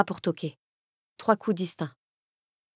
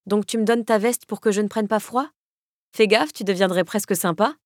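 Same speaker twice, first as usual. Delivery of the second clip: mischievous; 2 semitones higher, 3 dB louder than usual. Acted. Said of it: "lui lancer avec malice".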